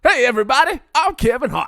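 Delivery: very high, very loud comedian impression; hammed-up high shouted introduction; Kevin Hart. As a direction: yell the name out at the top of the voice. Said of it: "Doing a Kevin Hart impression".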